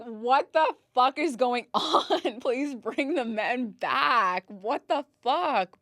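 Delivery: slow, high, loud outraged disbelief with a laugh. Retold or imitated. Recalling the man in the elevator, slow outraged disbelief. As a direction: stretch it out in mock outrage. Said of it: "I was like".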